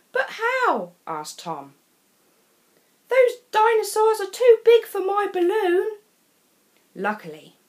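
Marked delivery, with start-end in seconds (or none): 0.1-0.9 high, doubtful question; puzzled Tom. A narrator's reading. Tom asks. 3.1-6.0 put-on higher, louder objecting boy; protesting Tom. A narrator's reading.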